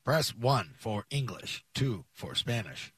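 slow robotic menu voice; automated phone menu. Retold or imitated. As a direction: read it like a phone system menu. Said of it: "Sounds like an A T M".

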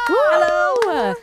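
high, loud whooped hello; very high, drawn-out excited hello; excited greeting. Real, not acted. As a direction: call out a big hello to match the hype. Guest answers hyped introduction.

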